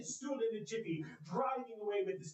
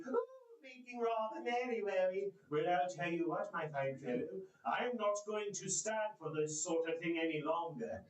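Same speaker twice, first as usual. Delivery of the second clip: mock stern. Scrooge feigning anger.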